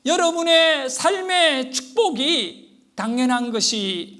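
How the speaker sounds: loud, emphatic sermon delivery; forceful preaching. Real, not acted. Preacher telling congregation their salvation is not owed, forceful preaching. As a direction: press each point home to the congregation.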